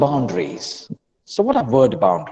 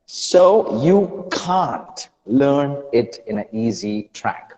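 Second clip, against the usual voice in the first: ordinary delivery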